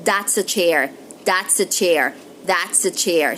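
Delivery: "That's" said as "dat's" with a d. Shown as a demonstration. Teacher demos the d substitute for learners. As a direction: swap th in "That's" for d. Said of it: "we can say".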